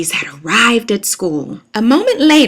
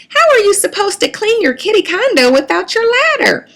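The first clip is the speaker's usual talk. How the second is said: scolding mother; 10 semitones higher than usual. A narrator's reading. Mama scolding the daughters.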